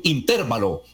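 put-on "intervalo" accented on the TER; stressed on the E. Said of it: "con acento en la E".

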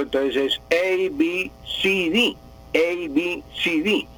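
A, B, C, D recited with English letter names; English alphabet. Shown as a demonstration. Teacher reciting the English alphabet to a listener. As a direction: spell "A, B, C, D" the English way. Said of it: "si usted habla inglés".

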